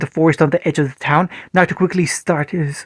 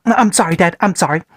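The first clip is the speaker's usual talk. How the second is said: choked apology. Acted. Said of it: "before choking out".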